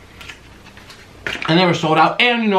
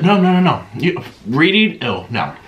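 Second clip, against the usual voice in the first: mock disgust; 2 semitones higher than usual. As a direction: tease the viewers with fake disgust. Teasing viewers about reading.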